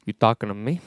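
a light, low De Niro growl; Robert De Niro impression. Playing De Niro as his Duff Man for friends. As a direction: do a tough-guy De Niro, understated. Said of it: "It's me, Robert De Niro".

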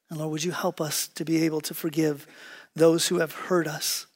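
quiet, measured pastoral prayer. Real, not acted. Preacher asks God's help to forgive, prayerful. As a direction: pray softly, letting the phrases settle.

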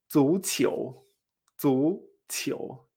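"zuqiu" rising on both syllables; two questioning lifts on "zuqiu"; repeat-after-me "zuqiu", each syllable gliding up; tones two-two. Shown as a demonstration. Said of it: "Dos segundos tonos".

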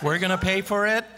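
stunned, laughing disbelief; surprised. Retold or imitated. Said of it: "our mouth dropped like".

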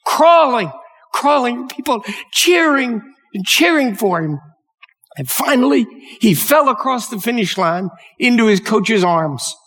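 high, stirred-up telling; moved and building to the finish; emotional storytelling. Real, not acted. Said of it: "didn't mean to get emotional".

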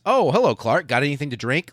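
high, breezy mock nonchalance; hammed-up casual greeting; super casual. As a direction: toss it off like nothing happened. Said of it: "Like it's no fucking big deal".

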